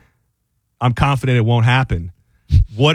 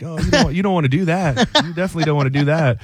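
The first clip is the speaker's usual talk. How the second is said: reverse psychology taunt; 2 semitones higher, faster than usual. Retold or imitated. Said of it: "A little reverse psychology".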